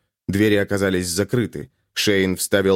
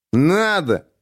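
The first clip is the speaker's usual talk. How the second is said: drawn out; 7 semitones higher than usual. A narrator's reading. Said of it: "протянул Шейн".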